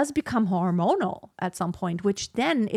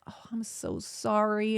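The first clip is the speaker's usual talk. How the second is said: humble apology; 5 dB quieter than usual. Retold or imitated. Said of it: "get all humble".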